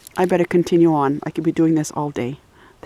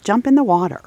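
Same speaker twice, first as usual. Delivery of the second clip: mock reply to the dog; 8 semitones higher than usual. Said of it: "I'm like".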